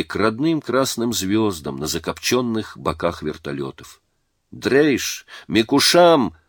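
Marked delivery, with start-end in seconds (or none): 4.5-6.4 higher-pitched narrated yell; guttural yell. A narrator's reading. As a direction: call it out as a foreign threat, raised in pitch. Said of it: "заорали из окна гортанно". (гортанный выкрик повыше)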